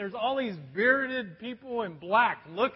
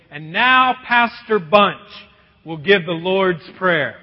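formal announcement; 8 dB louder, slower than usual. Retold or imitated. Brother announces the pastor formally.

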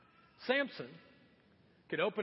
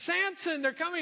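high, acted alarm; mock called warning; 10 semitones higher, 5 dB louder than usual. Delilah testing Samson a third time, calling out. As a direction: call out to rouse him.

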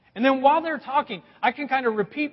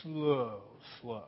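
preacher demonstrates a rhythm chant; quick high, slow low; 9 semitones lower, 4 dB quieter, much slower than usual. Shown as a demonstration. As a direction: snap up on "quick", sink down on "slow". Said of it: "practice that this week".

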